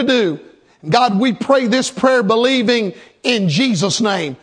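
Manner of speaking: earnest prayer voice leading the church; pastor's prayer. Acted. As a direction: pray aloud over the congregation. Leads congregation in prayer.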